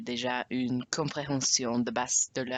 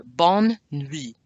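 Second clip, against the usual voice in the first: slow model phrase; 4 dB louder than usual. Shown as a demonstration. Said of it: "Practice that".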